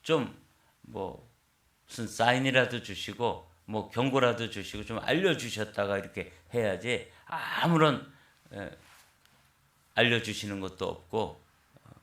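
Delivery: mild mock outrage; retold angry protest. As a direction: protest to God like a wronged young man, half acted. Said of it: "막 화를 냈다는 거예요".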